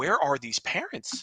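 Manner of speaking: soft, slow, wondering aside. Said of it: "my wife and I were talking".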